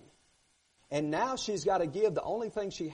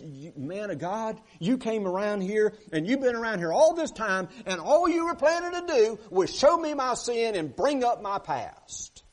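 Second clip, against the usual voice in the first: bitter blame; 3 semitones higher, 4 dB louder than usual. Acted. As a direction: throw her past back at him. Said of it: "She bitterly blames Elijah for it".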